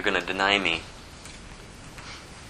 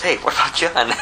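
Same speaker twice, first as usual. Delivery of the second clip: higher, louder, put-on Peter; lightly acted higher-pitched disciple; Peter's retort; 4 semitones higher, 3 dB louder than usual. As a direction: blurt it out as a challenge. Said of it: "Peter turns and says".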